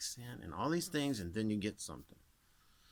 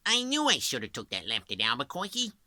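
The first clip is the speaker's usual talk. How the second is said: Bugs Bunny; 4 semitones higher, 5 dB louder, faster than usual. Retold or imitated. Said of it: "he talks more to the front of his mouth".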